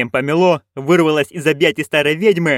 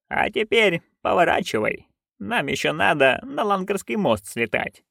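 softer, held-back instruction; subdued order; 4 semitones higher, 5 dB quieter than usual. A narrator's reading. Witch telling nanny to turn for the bridge, subdued. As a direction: give the order quietly.

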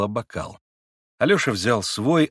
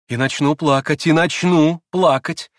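louder, on the edge of tears; tearful repeating; 6 semitones higher, 6 dB louder than usual. A narrator's reading. Grushenka answers Rakitin, close to tears. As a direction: repeat it defiantly, near crying. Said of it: "приговаривала Грушенька".

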